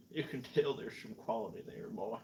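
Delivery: mock Southern accent, "tell" stretched toward "tayl". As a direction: repeat it like a folksy Southerner. Repeats own remark in put-on drawl.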